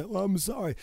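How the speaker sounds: a quick imitating sorry; mock apology. Host imitating someone who apologizes, mock pitch. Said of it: "as soon as I hear someone say".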